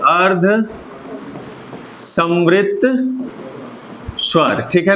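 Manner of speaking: अर्ध, समृत, स्वर said one at a time with long pauses; syllable by syllable. Shown as a demonstration. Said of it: "क्या नाम है?".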